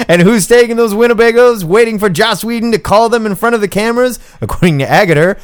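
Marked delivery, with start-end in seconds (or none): 0.1-4.2 a hammed-up British accent, rising up; mock British accent. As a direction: push the British accent higher and brighter. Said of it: "read that in a British accent".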